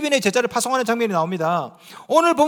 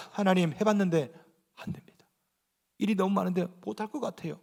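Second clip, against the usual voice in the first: humble prayer; 7 dB quieter than usual. Shown as a demonstration. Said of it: "기도하는 겁니다".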